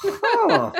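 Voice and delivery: a sudden high, loud startled huh. Retold or imitated. Mocking herself for sounding like a Spanish robber, startled. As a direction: jump at your own robber voice. Mock reaction to own Spanish.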